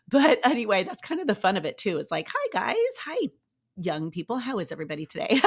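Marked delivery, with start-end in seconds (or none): 2.3-5.4 chirpy greeting. Retold or imitated. Greeting young gym people.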